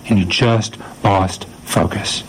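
slow, gentle encouragement; encouraging. Retold or imitated. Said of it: "this moment of encouragement for Peter".

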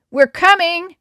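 put-on loud, high call to the boys ahead. A narrator's reading. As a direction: shout the warning ahead. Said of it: "Mindy called out to the boys ahead".

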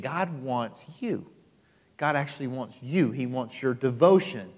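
preacher turning tender. Acted. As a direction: lean in and say it gently. Preacher softens to tender point.

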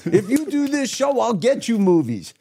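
high-pitched mock voice of his agent telling him off; agent's scolding. Agent Leslie berating him for passing on the show, high mock voice. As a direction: squeak it out like a bossy female agent. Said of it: "She's like".

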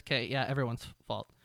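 resigned. Retold or imitated. Resigned agreement voiced.

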